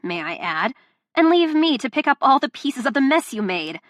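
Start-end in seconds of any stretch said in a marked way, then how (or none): 1.1-3.8 loud, raised, furious listing; angry rant. Acted. Delilah berating Luca, angry and loud. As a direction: tear into him. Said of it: "this rant".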